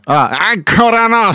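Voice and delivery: high, slow nasal imitation; mock nasal echo. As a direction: parrot it back in a nasal voice. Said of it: "Senti che voce".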